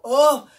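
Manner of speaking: Oh belted high and loud; emphasized vowel. Shown as a demonstration. Teacher stressing the long vowel for kids, belted high. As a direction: punch out Oh to show the long A. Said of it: "to emphasize".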